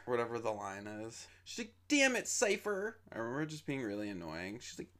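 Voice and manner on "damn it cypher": much higher, louder, slow whiny cry; whiny shriek. Retold or imitated. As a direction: drag it out like a spoiled complaint. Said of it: "her voice just turned ... bitchy and annoying".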